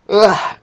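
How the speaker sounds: loud, high yawning groan; real yawn. Real, not acted. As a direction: let out a tired yawn. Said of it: "sorry about all the yawning".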